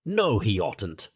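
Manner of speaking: slow, with his mouth full. Acted. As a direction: shout through a mouthful. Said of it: "shouted the Mole with his mouth full".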